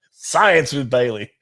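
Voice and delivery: slow, drawn-out words through laughter; laughing. Real, not acted. Host joking about tonight's hashtags, laughing as he speaks. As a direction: announce it while cracking up. Cracking up at running joke.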